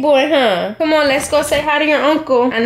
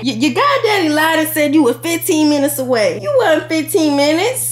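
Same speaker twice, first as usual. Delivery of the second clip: ordinary talk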